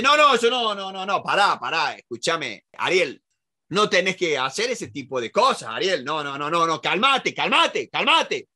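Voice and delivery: a flustered person urging calm; mock frantic calming. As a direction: play someone anxiously trying to calm a friend. Acting out trying to calm someone.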